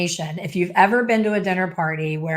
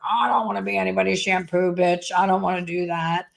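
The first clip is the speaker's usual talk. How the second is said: cocky student. Retold or imitated. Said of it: "We're like".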